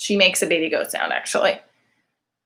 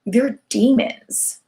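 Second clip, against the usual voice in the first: deadpan demons; 4 semitones higher, slower than usual. Retold or imitated. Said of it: "now it's just like".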